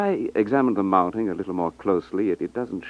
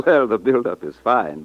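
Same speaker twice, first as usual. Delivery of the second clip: amused laugh; 2 semitones higher, 6 dB louder than usual. Acted. Customer teases jeweler's long sales pitch.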